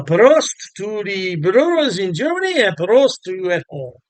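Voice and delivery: hammed-up German accent toast; terrible German accent. Shown as a demonstration. Beer reviewer toasting German brewers and viewers at home, bad German accent. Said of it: "My terrible German accent".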